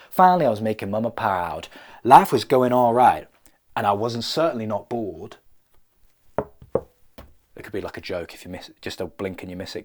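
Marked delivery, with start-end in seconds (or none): 0.1-5.4 hero voiceover. Pretend.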